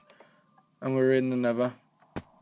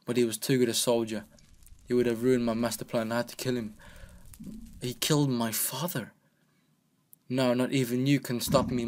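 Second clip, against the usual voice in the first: lightly voiced villain. Reads villain's final words.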